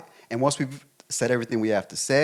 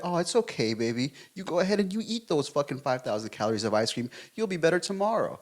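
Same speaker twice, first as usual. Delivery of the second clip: a hint of a syrupy, higher coddling voice; mock soothing enabler; 3 semitones higher, 3 dB quieter than usual. Boyfriend mocking a coddling reply to girlfriend, mock sweet. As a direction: coo it like a too-sweet enabler. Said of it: "So I'm not gonna sit here and be like".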